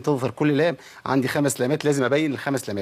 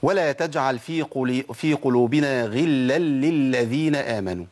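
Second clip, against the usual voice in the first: measured tajweed chanting, each lam drawn out; slow Quran recitation; much slower than usual. Shown as a demonstration. Teacher recites the verse to count the lams. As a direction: recite slowly, savouring every lam. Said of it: "مش مصدقيني؟".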